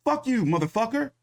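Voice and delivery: mock angry Canelo. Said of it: "he gonna be like".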